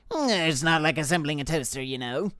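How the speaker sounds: tentative, throaty character voice; back in the throat. Acted. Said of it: "Let's do back in the throat".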